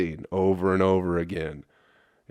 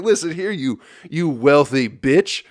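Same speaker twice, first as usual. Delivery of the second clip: mock sneer at mom; 6 semitones higher, 5 dB louder than usual. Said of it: "I wasn't like".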